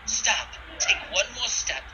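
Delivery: calling out. Acted. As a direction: stop them at crossbow point. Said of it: "as she calls out".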